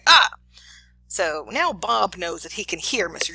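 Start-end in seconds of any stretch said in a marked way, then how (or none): 0.1-0.3 short retold cry of pain; brief "ah" of someone being shocked; pained yelp. Teacher voices the learner getting shocked, short pained yelp. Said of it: "hear him in the other room say".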